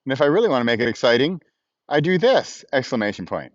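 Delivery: reading out commas and periods to a phone; dictation voice. Shown as a demonstration. To viewers, demoing his dictation, spoken like a dictated note. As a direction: spell out the punctuation word by word like dictating. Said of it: "And so I say".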